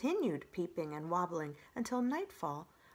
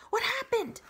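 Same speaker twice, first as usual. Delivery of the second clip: put-on high, breathless young fox voice, louder; panting fox; 8 dB louder than usual. Fox running up to the robot, high and breathless. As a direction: gasp it out like a fox who ran here. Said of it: "the fox panted".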